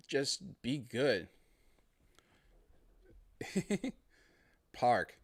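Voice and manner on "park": Park said as pahk, Boston accent, no r; Boston accent, dropping the r in Park. Shown as a demonstration. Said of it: "Boston accent a lot of times".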